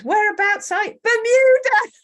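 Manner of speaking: bursts out high and loud on Bermuda; excited exclamation. Real, not acted. Host cheering a viewer's home, excited shout. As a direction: cheer the place name like a delighted host.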